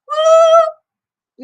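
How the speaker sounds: a big, high, loud whoop of joy; high-pitched woo; excited whoop. Real, not acted. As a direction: cheer it out, thrilled. Cheering about the caravan.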